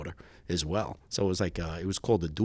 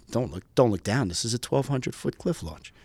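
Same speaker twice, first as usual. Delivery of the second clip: incredulous retort; 2 semitones higher than usual. Retold or imitated. Student answering his instructor at the cliff edge, incredulous. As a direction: throw the advice back in disbelief.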